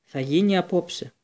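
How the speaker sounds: loud, slow trance voice; a strong, slow, ominous declaration; booming prophecy. Acted. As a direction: pronounce doom like a possessed oracle. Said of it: "μια δυνατή βροντερή φωνή".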